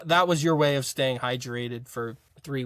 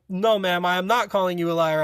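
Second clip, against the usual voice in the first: raised, emphatic imitation of protest; retold earnest denial; 5 semitones higher, 3 dB louder than usual. Recruit denying he called the instructor a liar, mildly protesting. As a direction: insist respectfully, a bit higher.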